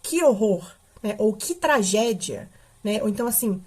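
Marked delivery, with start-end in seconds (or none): 0.0-0.6 expressive demo exclamation; mildly horrified exclamation; exclamatory. Shown as a demonstration. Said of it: "dar um acento, uma expressão". 1.3-2.5 slow, drawn-out exclamation; mildly emotional demo exclamation; exclamatory. Shown as a demonstration. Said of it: "Uma emoção à frase".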